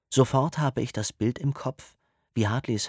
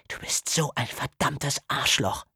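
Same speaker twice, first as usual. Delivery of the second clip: put-on a higher, angry girl's voice spitting the insult; hissing angrily; 5 semitones higher than usual. A narrator's reading. Hartley insults Easton after dousing him, angry and higher. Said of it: "faucht sie".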